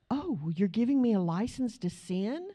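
gasp, then scandalized question; mock shock. Imagined listener objects to grace teaching, mock-shocked gasp. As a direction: play an affronted objector, lightly hammed-up.

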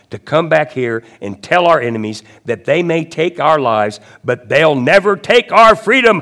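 rally the troops, swelling on the final words; rousing battle speech. Acted. Commander urges men to fight for freedom, rousing and loud.

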